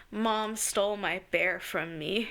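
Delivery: put-on grudging kid. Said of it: "I held on to that".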